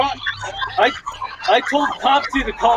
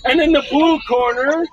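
boxing ring announcer. Pretend. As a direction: hype the fighters like a ring announcer. Announcing fighters like ring intro.

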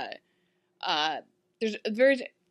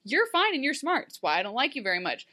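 playful king voice; 3 semitones higher than usual. Retold or imitated. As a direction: tease her with the choice like a smug king. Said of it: "he's just like".

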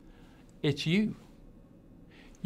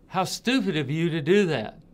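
mock yell; 4 dB louder than usual. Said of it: "somebody yells at you".

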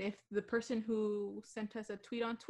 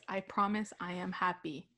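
imitating a deadpan monotone; flat and lifeless, copying her. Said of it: "Grace is in her monotone voice".

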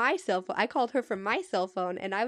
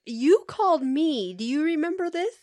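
exasperated retold rant; 5 semitones higher, 5 dB louder than usual. Retold rant at prank caller.

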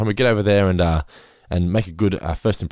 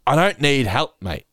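higher, touchy mock refusal; angry retold; 5 semitones higher than usual. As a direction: imitate a rude man rejecting help. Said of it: "so angry".

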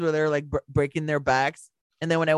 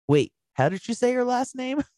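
mock bafflement; 10 semitones higher than usual. Retold surprised reaction of everyone.

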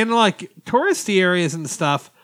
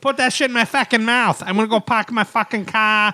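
hammed-up, higher-pitched Boston accent; thick Boston accent; 5 semitones higher than usual. Podcaster riffing on a car commercial, in mock Boston accent. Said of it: "in a thick Boston accent".

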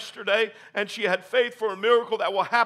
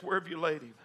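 softer and lower, a tender Where; gentle question; 3 semitones lower, 6 dB quieter, faster than usual. Acted. Jesus quietly asks the grieving sisters, softly. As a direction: ask it softly, almost to yourself.

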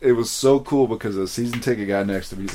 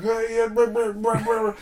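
retold yelling; 13 semitones higher than usual. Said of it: "I was yelling out every single name like a jackass".

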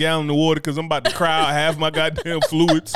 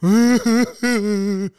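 mock crying; 4 semitones higher, 4 dB louder than usual. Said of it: "Just out for a run".

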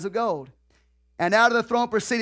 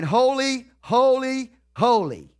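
seraphim crying out; 3 semitones higher, slower than usual. Retold or imitated. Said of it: "they are crying".

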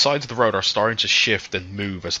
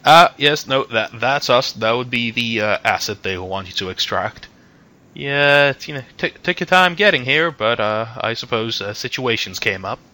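silver-haired man; 3 semitones higher, 5 dB louder than usual. Acted. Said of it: "the silver-haired man goes".

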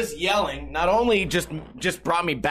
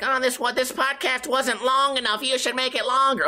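lightly voiced whiny kid, a bit higher; mocking dumb kid; 6 semitones higher than usual. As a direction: imitate a commenter, lightly mocking. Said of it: "some dumb fucking kid leaving a comment like".

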